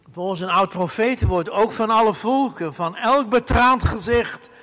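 rising fervent preaching. Acted. Preaching climax.

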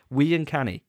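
lightly put-on Scottish accent. Shown as a demonstration. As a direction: demonstrate a token Scottish accent. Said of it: "seems to sound Scottish".

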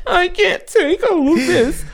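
high, slow, laugh-cracked quote; laughing through retold tears. Telling the podcast about grandpa's love, high and laughing slowly. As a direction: retell breaking down at work, laughing at it. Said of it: "I just started crying".

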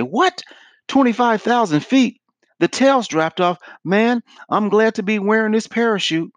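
high-pitched mock alarm at the news; startled passenger. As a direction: play a passenger jolted by bad news. Passenger reacts to crash announcement.

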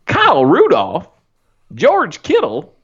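slow, swooping Southern drawl; hammy Southern twang; Southern accent. Acted. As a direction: announce each name in a put-on Southern accent. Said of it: "sound better with that accent".

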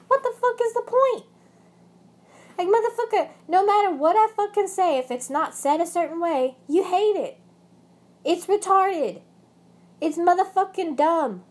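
real rage spilling out in a high yell; furious outburst. Real, not acted. Venting at her ex, furious high-pitched shouting. Venting about abusive ex, boils over.

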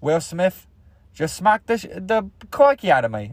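lightly put-on, halting Aussie accent; Australian accent. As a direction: attempt a mock Australian reaction. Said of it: "That's Australian".

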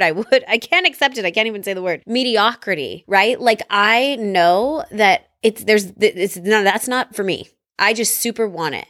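real passionate insistence; fired up. Real, not acted. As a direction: speak with fired-up conviction. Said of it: "you can hear it in my voice, right? I'm getting all fired up".

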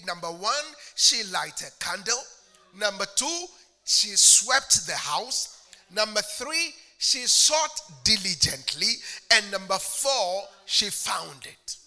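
emphatic preaching list. Real, not acted. Preacher counting the woman's steps for listeners, emphatic. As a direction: hammer each numbered step.

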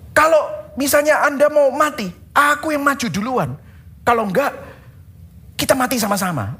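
mock heroic pledge; brave boast. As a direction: play Peter boasting he'll die first.

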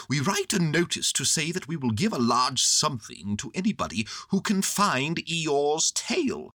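Owl, explaining. Acted.

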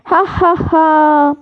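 slow, spelled-out taunting laugh; drawn-out mock "ha ha ha". A narrator's reading. Peeves mocks Filch with laughter.

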